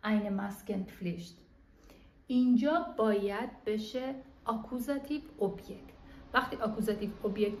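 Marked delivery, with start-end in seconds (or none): 0.0-1.4 slow dictation. Shown as a demonstration. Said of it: "بله".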